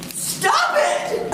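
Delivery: high, laughing protest; giggling. Real, not acted. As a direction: giggle through it, half joking. Giggling at officers in jail.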